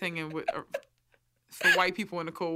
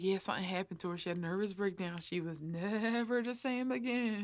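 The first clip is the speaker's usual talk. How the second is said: hushed gossip; 7 dB quieter than usual. Retold or imitated. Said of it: "everybody be like".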